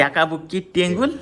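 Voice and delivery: high, loud catchphrase imitation; playful high-pitched impression, rising at the end; Suraj Chavan. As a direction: mimic a celebrity's catchphrase, pitched well up. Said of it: "Suraj Chavan".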